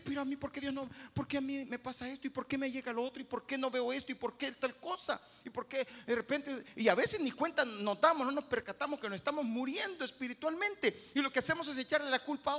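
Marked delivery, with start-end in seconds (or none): 0.0-6.6 complaining believer. Retold or imitated. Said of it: "usted empieza a ver y decir".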